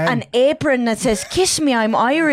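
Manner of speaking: put-on high, amateur Irish accent; playful Irish accent. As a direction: keep up the bad Irish bit. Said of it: "so to do the accent".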